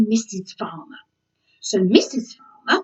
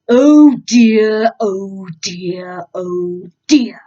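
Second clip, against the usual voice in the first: worried; 6 dB louder, much slower than usual. Acted. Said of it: "said Frederick Fire".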